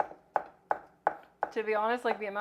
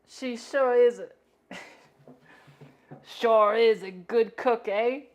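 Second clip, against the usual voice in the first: mock British accent; 8 dB louder than usual. Mocking how British people talk, in a hammed-up British accent. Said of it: "British people be like".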